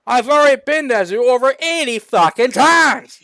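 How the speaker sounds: high, loud yelling mayor; angry. A narrator's reading. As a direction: shout him down, hammed-up. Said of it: "The mayor responded with anger".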